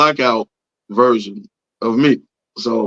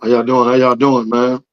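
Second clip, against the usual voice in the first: hoarse, barely-there voice; raspy whisper. Real, not acted. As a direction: talk through a lost voice. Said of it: "Listen to that voice".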